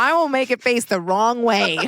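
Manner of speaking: loud, high playful yell; hammed-up shouted warning; mock threat. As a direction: top the threat at full volume.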